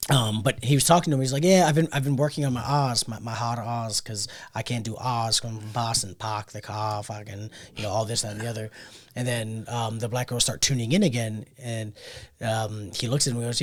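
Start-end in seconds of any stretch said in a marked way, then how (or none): 1.4-8.7 rough attempt at a Boston accent. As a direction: lightly imitate a Boston man, dropping the R's. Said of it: "I can do a good Boston accent".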